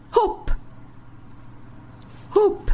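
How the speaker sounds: the woodpecker pecks it out in one bright peck; woodpecker snap. Acted. Woodpecker snapping up the louse.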